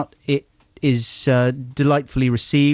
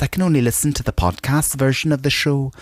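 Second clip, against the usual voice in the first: Mark Cousins impression; 3 semitones higher than usual. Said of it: "that's just Tom Paulin".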